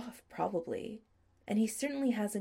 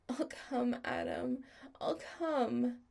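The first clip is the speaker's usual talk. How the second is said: higher, urgent plea; desperate warning; 6 semitones higher, slower than usual. Acted. Chris warning Adam over the phone, higher and urgent. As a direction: warn him urgently, on the edge.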